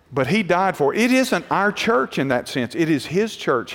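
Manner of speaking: softly and gently reassuring; calm correction said softly; soft, gentle and patient; kindly. Retold or imitated. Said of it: "I just kindly said to her".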